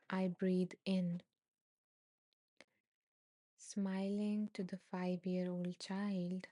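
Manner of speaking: slow, evenly paced breathing verse; measured meditation recitation with pauses; guided meditation. A narrator's reading. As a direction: recite it slowly, phrase by phrase. Reads out meditation statement.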